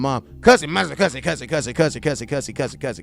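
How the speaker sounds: a hint of a kid's tattling voice, fading from normal to a whisper. Kid runs to his mom tattling on the coach, in a voice that fades to a whisper.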